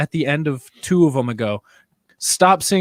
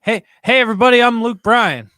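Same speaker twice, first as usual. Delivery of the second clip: lightly mimicked out-of-character greeting; louder, higher mock of a failed impression; Tuba; 4 semitones higher, 5 dB louder than usual. Host mocks co-host's failed bit as a singer, light mimicry. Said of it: "in his tuba voice".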